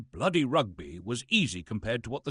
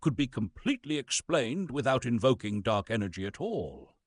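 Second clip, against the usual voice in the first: documentary narration. Acted. Reads a pompous science script.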